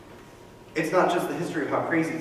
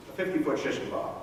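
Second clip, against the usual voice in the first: breathy whispered punchline, softer; whispered aside; 3 semitones higher, 6 dB quieter, faster than usual. Acted. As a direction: drop to a whisper for the grim joke. Grim joke about gallows.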